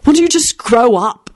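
high, drawn-out irritated rebuke; snapped. A narrator's reading. Jamie telling Timothy to grow up, snapping. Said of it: "snapped Jamie".

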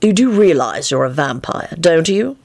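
understated, polite inquiry; polite question. A narrator's reading. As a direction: ask with mild courtesy. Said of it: "he asked the man politely".

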